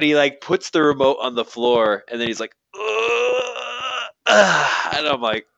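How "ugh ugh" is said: high-pitched imitated "ugh"; mock groan. Retold comic's groan at joke.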